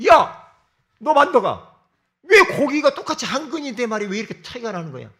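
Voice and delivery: loud, high indignant customer with a laugh; retold angry complaint. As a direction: demand an answer, half laughing. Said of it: "화가 나고 열이 받아가지고". (손님이 백정에게 따지는, 크고 높은 화난 목소리)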